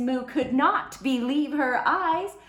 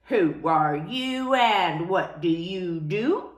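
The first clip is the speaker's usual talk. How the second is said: slow, low and unfriendly; a grudging, unwelcoming question; not very nicely; 3 semitones lower, 4 dB louder than usual. Acted. Elephants question the cow unkindly, slow and cold. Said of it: "asked, but not very nicely".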